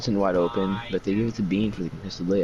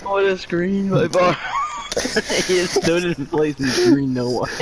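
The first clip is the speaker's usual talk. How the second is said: excited shout; 8 semitones higher than usual. Real, not acted. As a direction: shout it in disbelief. Mocking a bad screen.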